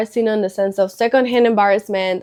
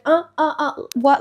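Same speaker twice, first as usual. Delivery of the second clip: higher-pitched imitation of mock stammering; mocking stutter; 4 semitones higher than usual. Student mimicking the nervous teacher's stutter, mocking. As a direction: repeat the stammer back in mockery. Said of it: "I stuttered a little bit".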